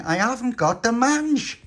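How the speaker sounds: high, loud and drawn out protest; exasperated denial. Acted. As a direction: plead it, fed up with the accusation. Tony protests to Pauline.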